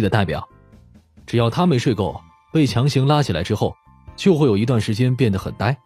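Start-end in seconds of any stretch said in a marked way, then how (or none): none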